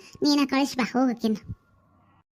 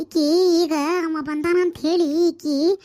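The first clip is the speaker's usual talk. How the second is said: indignant, raised-voice grievance; loud aggrieved complaint; 8 dB louder than usual. Acted. Mother complains to sister-in-law about her daughter, loud and aggrieved. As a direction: burst out loudly, much louder at the end.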